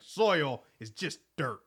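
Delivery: slow, ponderous mock-philosophical; lightly mocked cowboy musing; slow deadpan. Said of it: "He's like".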